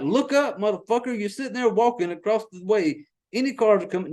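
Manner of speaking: shouting at a character on screen; yelling at screen. Real, not acted. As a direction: warn her to look up.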